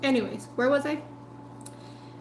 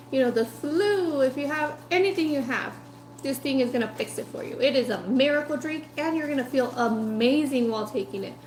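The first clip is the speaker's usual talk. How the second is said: a hint of a hammed-up snake-oil salesman; mock salesman pitch; 3 semitones higher than usual. Voicing an old-time ad pitch.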